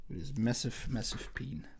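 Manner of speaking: a sly whispered aside. Acted. Joking to viewers about the bull's anatomy, whispered. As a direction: drop to a whisper for the punchline.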